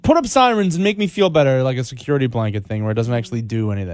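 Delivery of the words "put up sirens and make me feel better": higher, lightly imitated worry; mock freaked-out public. Host imitating scared residents asking for sirens, mildly anxious. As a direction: mimic anxious people wanting reassurance. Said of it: "kind of freaked out and scared".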